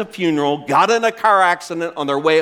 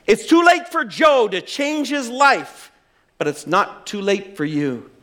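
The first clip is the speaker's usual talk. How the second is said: raised, pounding preacher's warning; blunt preacher; 6 semitones higher than usual. Retold or imitated. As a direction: preach it at them without mercy. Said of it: "getting angrier and angrier the longer this guy spoke".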